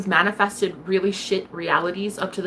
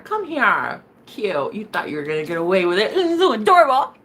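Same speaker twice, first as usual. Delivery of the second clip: hint of a creepy avenging witch; menacing Carrie. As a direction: play the vengeful Carrie lightly. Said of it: "like Carrie at the end of the movie".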